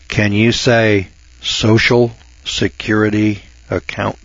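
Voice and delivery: put-on slow and patronizing, like to children; slow kids-show teacher voice. Shown as a demonstration. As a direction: spell it out slowly for kids. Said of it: "boys and girls".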